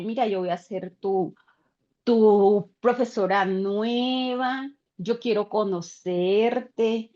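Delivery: slow, low, gentle coaxing; gentle teacher voice. Retold or imitated. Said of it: "comienzo a hablarle al niño de otra manera".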